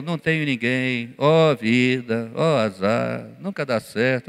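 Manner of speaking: a lightly voiced woe-is-me groan, the words dragged out slowly; mild mock wail of the paralyzed man; self-pitying lament. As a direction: moan it like a man sunk in bad luck for decades.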